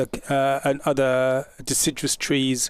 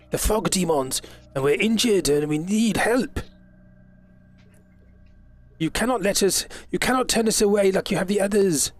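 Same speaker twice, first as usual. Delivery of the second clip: pleading elf captain; 3 semitones higher than usual. Acted. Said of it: "Lewin, you hear".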